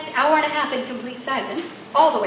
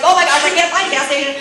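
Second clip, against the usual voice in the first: loud, hurried mock panic; flustered mock exclamation, rushed; stressed outburst; 2 semitones higher, 6 dB louder, faster than usual. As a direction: imitate a frazzled husband, fast and loud. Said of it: "you know, stressed".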